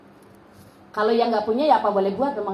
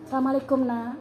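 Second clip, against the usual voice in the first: softer, calm and gentle; gentle greeting; 6 dB quieter than usual. Acted. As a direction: greet the child softly. Mother greets child after wudhu.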